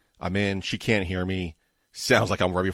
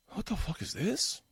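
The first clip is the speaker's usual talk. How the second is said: baffled; 12 semitones higher, 9 dB quieter than usual. Real, not acted. Baffled by insurance forms.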